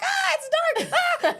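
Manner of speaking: high mock panic cry; retold scared shriek in the dark; freaking out. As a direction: squeal at the dark, half laughing. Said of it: "was just like".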